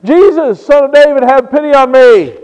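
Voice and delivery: blind man calling out for pity. Retold or imitated. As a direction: call out to be heard. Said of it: "he is calling out".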